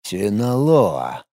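slow, low, quiet repetition of Синалоа; drawn out. A narrator's reading. Leader Buran repeating the cartel's name, drawn out. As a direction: stretch Синалоа out, musing. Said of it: "протянул лидер".

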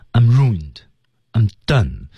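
"I'm" reduced, "ruined" and "done" stressed; weak "I'm". Shown as a demonstration. Coach shows weak forms, "I'm" light before the key word. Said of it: "是要被弱读的".

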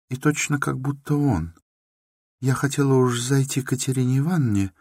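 put-on a meek girl talking quickly about her neighbours; shy young woman chattering nervously; timid young Sonya. A narrator's reading. Sonya's voice held.

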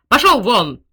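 very loud furious shout; furious yell. A narrator's reading. General orders servant out, loud furious yell. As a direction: roar him out of the room. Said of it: "закричал генерал".

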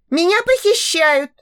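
put-on a girl crying out to get even; vengeful girl. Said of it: "мстительно заявила она". (высоким девичьим голосом, мстительно)

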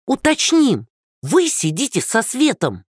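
high, mocking crone voice; hoarse mocking old woman. Old woman mocking Andrey, high and taunting. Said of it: "хрипло расхохоталась бабушка".

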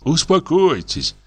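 calm him with a sheepish smile; guilty smile. A narrator's reading. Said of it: "виновато улыбаясь". (виновато, успокаивающе)

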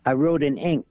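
high, slow, fluttery Capote impression; Reagan doing Truman Capote. Impressionist showing Reagan's Capote impression, high and slow. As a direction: lift the voice up and draw it out as Capote. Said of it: "He, he did".

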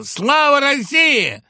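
chorus shout. A narrator's reading. Trio echoes the toast.

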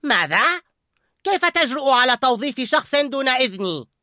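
high, loud indignant cry; angry outburst. A narrator's reading. Skinner shouting at the cooks, angry. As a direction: demand an answer furiously. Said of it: "صاح سكينر غاضبا".

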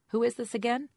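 high, loud squeaky question. A narrator's reading. Caller asks who is ringing, squeaky voice. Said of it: "a Jane with a squeaky voice said".

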